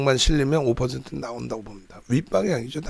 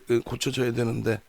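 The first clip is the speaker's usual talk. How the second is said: usual speaking voice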